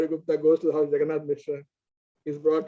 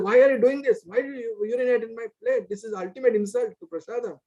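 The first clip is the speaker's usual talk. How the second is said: much higher, indignant outcry; angry outburst; 7 semitones higher than usual. Retold or imitated. Murari rebukes Nimai for urinating on his plate, angrily. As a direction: protest furiously at the insult. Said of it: "he got very angry".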